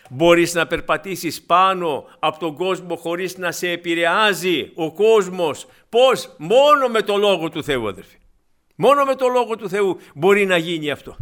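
slow, loud, emphatic sermon; forceful slow preacher climax; impassioned preaching. Acted. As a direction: drive each word home slowly.

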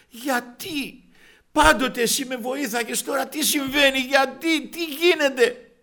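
high, loud, anguished cry to God, re-enacted; tearful plea. Man in tears asks God why help has stopped, anguished high pleading. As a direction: plead at the top of your range, stretching the last question. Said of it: "να τρέχουν τα δάκρυα".

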